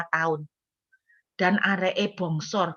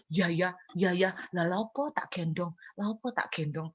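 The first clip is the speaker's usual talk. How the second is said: resigned mutter; 4 semitones lower, 8 dB quieter than usual. Retold or imitated. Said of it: "setelah diomongin gitu".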